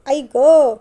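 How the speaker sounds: loud, sudden yelp of pain; cry of pain. A narrator's reading. Wife collides head-on with husband, crying out in pain. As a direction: exclaim on impact, acted. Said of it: "दोघेही क्षणभर कळवळले".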